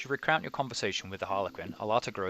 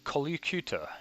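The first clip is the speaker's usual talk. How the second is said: grand jester greeting; 6 semitones higher, 4 dB louder than usual. Acted.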